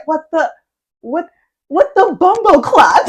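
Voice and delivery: hammed-up Jamaican accent, cracking up; mock patois. Imitating girlfriend's botched Jamaican patois, laughing. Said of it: "she tries to, like, mimic me".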